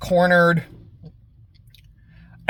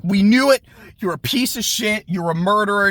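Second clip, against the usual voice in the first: angry accusation; 5 semitones higher than usual. Retold or imitated. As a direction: hurl it at her, bitter and raised. Grieving couple accuses demon.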